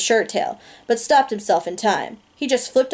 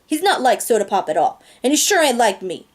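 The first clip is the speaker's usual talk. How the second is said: bitter outburst. Acted. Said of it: "I burst out bitterly".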